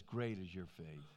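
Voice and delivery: Jesus marveling at her faith, softly. Retold or imitated. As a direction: breathe great out in quiet wonder. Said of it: "He marvels at it".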